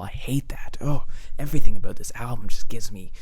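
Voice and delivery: hushed, breathy groan of distaste; whispered disgust. Real, not acted. Reviewer whispering her disgust at the album. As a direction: whisper it like you can't bear it.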